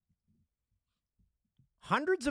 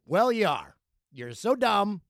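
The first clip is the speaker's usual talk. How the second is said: taunting comeback; 3 semitones higher, 4 dB louder than usual. Acted. Jailers' blunt comeback, acted.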